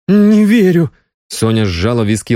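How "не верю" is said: high, loud cry of disbelief; shocked outcry. A narrator's reading. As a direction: refuse to believe it, loudly. (потрясённый громкий возглас)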